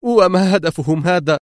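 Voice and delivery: high-pitched frightened question; startled woman's anxious query; alarmed. A narrator's reading. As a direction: ask in alarm, voice lifted. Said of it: "سألته في ارتياع".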